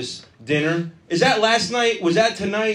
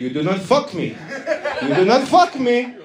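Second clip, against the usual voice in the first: warning Indian salesman; 4 semitones higher than usual. Retold or imitated.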